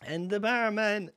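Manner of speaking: high, loud punchline, laughing mid-line; retelling the favourite line, cracking up; Mossy Flood impression. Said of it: "It's so good".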